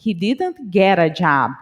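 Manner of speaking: "get a" joined as "gera", at natural pace; a fluent speaker's connected speech; linked get a. Shown as a demonstration. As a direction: blend "get" straight into "a" in "he didn't get a job". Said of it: "O get com o artigo a".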